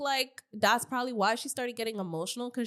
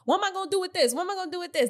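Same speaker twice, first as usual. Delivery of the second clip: imitating Meatball; 8 semitones higher, 4 dB louder, much faster than usual. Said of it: "that's when Meatball's like".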